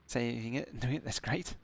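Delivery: drowsy, sleepy talk; half asleep. Real, not acted. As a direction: talk like you're about to nod off. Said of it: "I'm yawning and half asleep".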